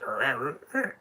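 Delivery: high, loud imitated frog croaks; frog creature. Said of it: "the frog says".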